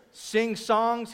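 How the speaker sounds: calling out. Real, not acted. Calling out quiz items to congregation.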